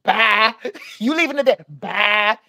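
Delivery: high mock scolding, cut off by curt byes; angry yelling woman. Clerk kicking the guest out today, mock angry yelling. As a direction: imitate her high-pitched dismissal of the guy. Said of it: "that's an angry black woman yelling right now".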